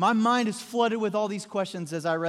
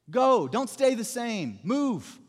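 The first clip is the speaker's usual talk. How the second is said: slow, higher, insistent order; emphatic command; 4 semitones higher, 4 dB louder, much slower than usual. Acted. The Lord orders reluctant Ananias out, in an emphatic command. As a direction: drive each command home deliberately. Preacher voicing the Lord's command.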